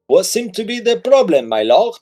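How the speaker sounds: high, polite servile voice; lightly voiced polite local; polite townsman. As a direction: play a fussy helpful stranger.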